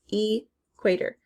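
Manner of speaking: "Equator" broken after the E: "E... quator"; syllable split demo. Shown as a demonstration. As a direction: say "Equator" slowly in two parts, pausing before "quator". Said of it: "So it's not in the first syllable".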